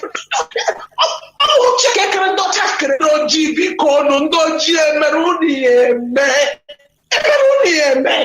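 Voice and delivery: hammed-up wailing plea in Igbo; mock complaint, half-shouted; mock lament. Mocking people's lament in Igbo.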